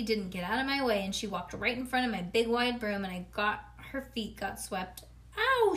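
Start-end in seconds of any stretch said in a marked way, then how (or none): 5.4-5.7 high, loud yelp of pain; storybook pained yell. A narrator's reading. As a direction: yelp it like toes just got hit. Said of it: "she yelled".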